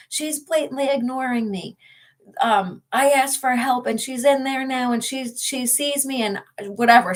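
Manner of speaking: a mild mimicked rant to the nurses; imitated irate patient complaint. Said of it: "too busy yelling at the nurses".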